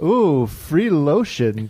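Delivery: slow, delighted coo. Pretend. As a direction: coo over the freebie. Pretend hotel guest.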